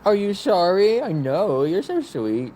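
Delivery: high, lifted questions to a pet. Real, not acted. Owner asking the dog if she's sorry, high baby talk.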